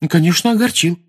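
put-on high, emphatic girlish assurance; assuring. A narrator's reading. Lavender assures Hermione they were upset, emphatically. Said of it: "заверила её Лаванда".

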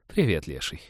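low, dutiful waitress greeting; routine polite greeting. Acted. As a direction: say it with a practised smile. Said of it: "дежурно улыбнулась официантка".

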